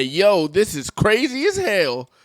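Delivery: slow, high-pitched imitation of the pair; Hodge twins. Vlogger quoting how the twins would react, imitation. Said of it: "The Hodge twins say".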